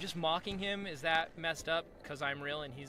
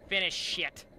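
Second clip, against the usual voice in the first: dramatic finish it; 2 semitones higher, 6 dB louder, slower than usual. Pretend. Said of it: "Gonna have to stay late to finish it".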